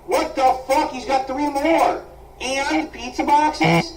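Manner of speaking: high, slow, loud disgust. Real, not acted. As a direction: recoil in revulsion. Disgusted by messy room.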